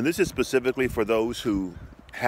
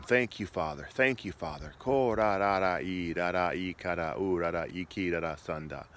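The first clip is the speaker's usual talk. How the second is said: fluent tongues prayer; praying in tongues. Shown as a demonstration. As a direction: let the syllables flow. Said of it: "And you just begin to thank him".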